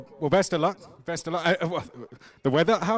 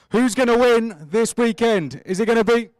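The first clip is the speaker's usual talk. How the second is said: hype-up question; 5 semitones higher, 6 dB louder than usual. Real, not acted. Host hypes Germany team.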